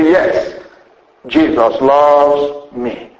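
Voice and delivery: slow tender affirmation. Shown as a demonstration. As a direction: say it like a gentle promise to yourself. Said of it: "I say".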